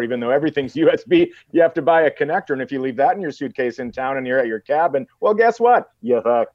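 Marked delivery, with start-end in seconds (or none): 5.2-6.5 sudden high exasperated yell; exasperated outburst. Real, not acted. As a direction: blow up at the absurdity. Ranting about lost chargers.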